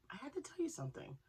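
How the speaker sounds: sudden excited whisper to the camera. Real, not acted. Vlogger whispering a secret to her viewers. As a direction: lean in and whisper the news.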